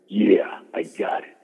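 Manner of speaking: slow, secretive whisper; hushed confiding whisper. Retold or imitated. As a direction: lean in and breathe it like a secret. Savage quoted in private room.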